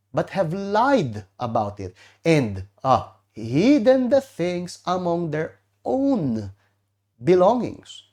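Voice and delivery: slow, solemn, lightly voiced divine pronouncement; voice of God. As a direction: read it slowly like God passing judgment. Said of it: "Sabi ng Diyos". (mabagal at solemneng boses ng Diyos, bahagya lang)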